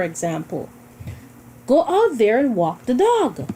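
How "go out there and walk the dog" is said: firm order, a bit higher and louder; insistent demand to walk the dog; strong command. Shown as a demonstration. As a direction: tell them to walk the dog like you mean it. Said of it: "the speaker really wants the dog walked".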